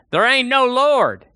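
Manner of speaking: high, slow, loud jeer; angry atheist shout. Acted. Atheist neighbor yells back over the fence, loud and high. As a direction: bellow it like a furious neighbor. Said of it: "he would shout".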